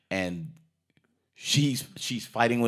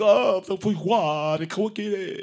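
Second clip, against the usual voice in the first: mock French accent; 11 semitones higher, 6 dB louder than usual. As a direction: ham up a fake French accent. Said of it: "he said it in French".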